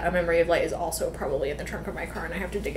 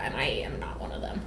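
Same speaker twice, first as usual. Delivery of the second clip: whispered aside; 8 semitones lower, 9 dB quieter than usual. Real, not acted. Self-deprecating aside.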